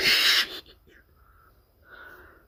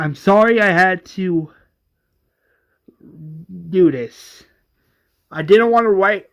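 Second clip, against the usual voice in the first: letter voice; 3 semitones lower than usual. Acted. Reading sister's letter.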